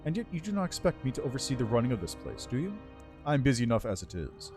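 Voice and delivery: lightly voiced regal undead lich; haughty undead lord, measured and cool. Lich speaks in game dialogue.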